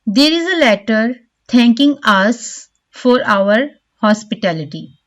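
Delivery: "us" given weight, with a pause after it; stress on "us". Shown as a demonstration. Teacher reading out an example sentence, stress on "us". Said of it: "The stress is on the word us".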